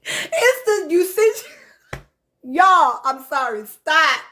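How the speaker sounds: apologizing while cracking up; broken starts through real laughter; laughing to tears. Real, not acted. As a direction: try to speak, overcome by giggles. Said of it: "I'm laughing, crying, y'all".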